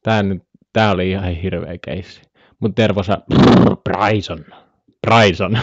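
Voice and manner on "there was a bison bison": put-on Finnish-accented English with rolled sounds; Jesse Puljujärvi. Streamer imitating a hockey player on bison, rolled Finnish accent. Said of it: "Jesse Puljujärvi-imitaatio".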